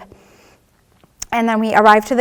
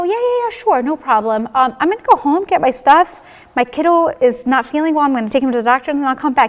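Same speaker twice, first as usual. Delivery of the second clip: much higher, quick dismissive agreement; shocked brushing off; 4 semitones higher than usual. Retold or imitated. Told she has cancer, she brushes the doctor off in high-pitched shock. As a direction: agree brightly while refusing to hear it. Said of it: "I'm in shock".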